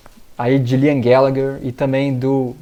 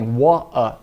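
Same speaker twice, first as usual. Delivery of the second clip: "water" with no T and no R, like "wo-a"; Manchester accent; 2 semitones lower than usual. Shown as a demonstration. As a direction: swallow the T in "water". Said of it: "comeu o R e comemos o T também". (sotaque do norte, "water" sem T nem R)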